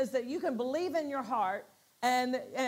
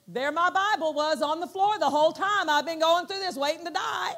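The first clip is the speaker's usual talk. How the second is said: higher, louder exclaiming; excited disbelief; 4 semitones higher, 5 dB louder than usual. Retold or imitated. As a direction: marvel at the irony. Retold astonishment.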